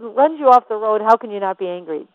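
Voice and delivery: normal talking voice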